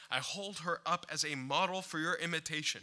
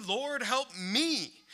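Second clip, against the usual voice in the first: earnest plea; 5 semitones higher, much slower than usual. Acted. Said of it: "And therefore you plead".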